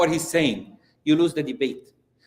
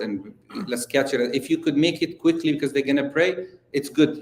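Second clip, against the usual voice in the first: gentle approach; 6 semitones lower than usual. Retold or imitated. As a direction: coax him down like a caring brother. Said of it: "Let me change my style".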